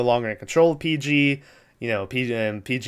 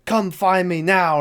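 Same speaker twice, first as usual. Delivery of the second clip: slow, higher, raised-voice command; mock summoning yell; 5 semitones higher, slower than usual. Imitating a floating face summoning the dude, mock yell. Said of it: "and he's screaming".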